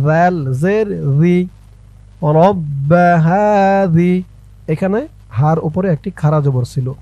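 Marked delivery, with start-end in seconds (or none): 2.4-4.1 হাযি with a soft, gentle z sound. Shown as a demonstration. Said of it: "জালের উচ্চারণটা নরম হবে।". (হাযি শব্দে নরম জাল উচ্চারণ)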